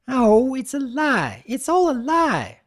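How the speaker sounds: high, slow sobbing wail; a filly bursting into tears; high, slow drawled wail of guilt; tearful wail. A narrator's reading. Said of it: "she drawled".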